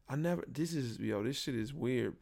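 ordinary delivery

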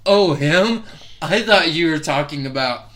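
high, loud mock cover-up; flustered backpedal. Comic re-enacts covering a blunder, high flustered backpedal.

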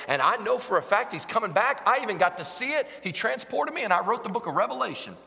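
lightly acted witness, gathering force; Apostle John. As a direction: start level, climb into fervent proclamation. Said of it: "if the Apostle John were here".

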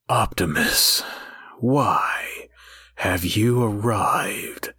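low, slow, half-whispered mock-epic delivery; overwrought slow drama. Mocking the griffin character's voice, slow and overwrought. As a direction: drag each phrase out like a gloomy cartoon epic. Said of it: "so overwrought ... slow and dramatic".

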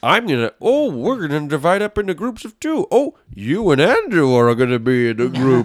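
teacher voice. Retold or imitated. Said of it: "he just sounded like a teacher".

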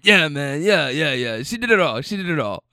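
put-on a light South American accent. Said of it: "so I'm trying to do the accent".

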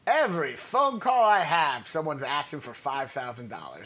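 a hint of Chris Rock ranting. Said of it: "I was trying to do the Chris Rock voice".

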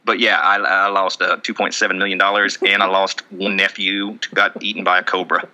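shaky impression of a Southern guy; lightly voiced Southern good old boy; Colby Rasmus. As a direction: play a sincere backwoods Southerner, loosely. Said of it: "I don't do very good impressions".

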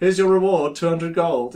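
loud generic game NPC; same NPC voice. Retold or imitated. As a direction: hand over the reward like a stock NPC. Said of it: "the same voice the whole way".

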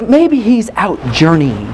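slow, taunting mock suggestion; drawn-out sarcastic speculation. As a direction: imitate a prophet drily needling rivals. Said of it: "He got a little sarcastic".

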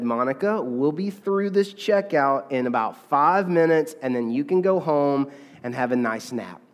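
mother soothing tantrum at checkout; patiently. Retold or imitated. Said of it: "the mother patiently said".

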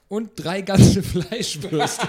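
slow, loud words through laughter; laughing. Real, not acted. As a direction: giggle out the last words. Laughing at the shopping list.

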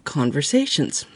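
short of breath, wheezing; wheezy voice. Real, not acted. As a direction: wheeze through the words. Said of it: "I can't breathe".

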